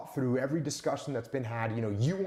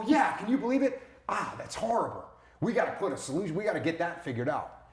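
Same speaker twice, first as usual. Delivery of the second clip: mock shared outrage; 3 semitones higher than usual. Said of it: "And you go".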